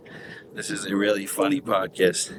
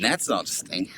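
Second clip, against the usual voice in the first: whisper; 6 dB quieter, slower than usual. Real, not acted. Aside while brother talks.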